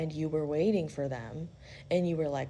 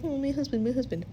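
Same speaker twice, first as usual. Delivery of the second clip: mock pining Penelope; 7 semitones higher, faster than usual. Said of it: "'cause she's like".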